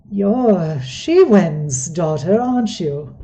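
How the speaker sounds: put-on slow, fond elderly goblin voice; an old man recognising her; smiling old goblin. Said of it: "a bit of a smile as he says".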